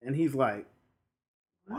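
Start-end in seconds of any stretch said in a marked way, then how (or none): 1.7-1.8 shocked outcry. Retold or imitated. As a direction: stretch it into a comic high shriek. Acted shocked reaction in retelling.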